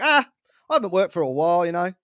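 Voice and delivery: imitating a British golf dad, slightly off; casual mock British accent; attempted British accent. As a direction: put on a loose British accent. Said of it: "he's got a British accent".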